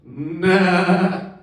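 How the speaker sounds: flat put-on kid voice for Billy; deadpan Billy. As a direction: shrug it off as a simple farm boy. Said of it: "and goes".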